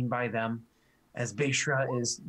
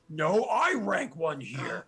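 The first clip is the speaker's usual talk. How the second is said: slow orc boast; much slower than usual. Acted. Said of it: "the other one responds like".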